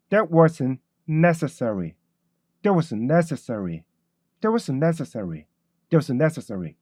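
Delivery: slow demo of the sentence, that clipped; teacher modelling the line; model reading. Shown as a demonstration. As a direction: say it slowly as a model. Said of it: "이렇게".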